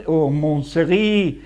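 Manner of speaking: "mon Seri" said slowly, low and tentative; slow trial. Shown as a demonstration. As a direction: try out "mon Seri" carefully, drawn out. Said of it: "that's a French name".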